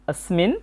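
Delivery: "অস্মিন" starting on an audible short a; initial A retained. Shown as a demonstration. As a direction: say "অস্মিন" as as-min. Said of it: "অটা রয়ে গেছে, তাই হবে".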